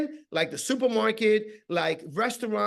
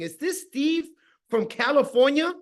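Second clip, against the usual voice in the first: higher, questioning caller voice; acted phone question; 5 semitones higher than usual. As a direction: check who picked up, rising at the end. Acting out cold phone call.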